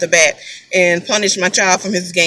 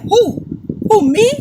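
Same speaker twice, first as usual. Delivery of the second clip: son's innocent protest; 11 semitones higher than usual. Retold or imitated. Son playing innocent, retold.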